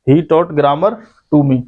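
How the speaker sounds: slowly, word by word, like dictating to a class; teacher dictating the example sentence slowly; slow and clear. Shown as a demonstration. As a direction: spell out each word slowly for the students. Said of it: "ऐसे कर सकते हो भाई तुम इसे".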